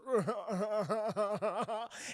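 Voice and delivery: long stuttering imitated chuckle; creepy chuckle. Killer held at gunpoint, creepy chuckling.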